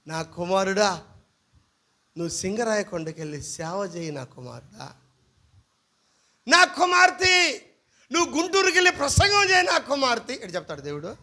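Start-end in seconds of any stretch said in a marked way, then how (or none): 0.1-4.9 low, soft mock voice of God. Pastor mocks dream claims, low mock God. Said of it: "దేవుడు ఆ రాత్రి అట్టే నా కల్లోకి వచ్చి". 6.5-10.3 mock God voice. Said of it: "దేవుడు ఆ రాత్రి అట్టే నా కల్లోకి వచ్చి".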